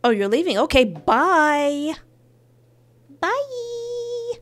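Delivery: sing-song high mock goodbye; dismissive. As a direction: brush him off brightly. Mock hanging up.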